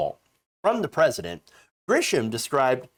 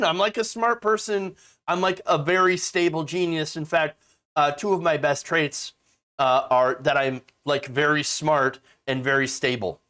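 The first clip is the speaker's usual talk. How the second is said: mock Trump boast. Mocks Trump bragging to his audience, lightly voiced. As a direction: brag about being smart like Trump. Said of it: "He's like".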